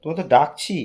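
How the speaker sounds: calling out. Real, not acted. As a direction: call her from the other room.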